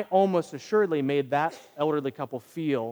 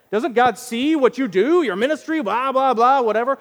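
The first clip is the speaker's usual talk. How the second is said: higher, louder whiny grievance; self-pitying complaint; 8 semitones higher, 8 dB louder than usual. Retold or imitated. Preacher voicing his own aggrieved inner thoughts, whiny. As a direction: whine it like you were wronged. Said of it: "how could God let that happen".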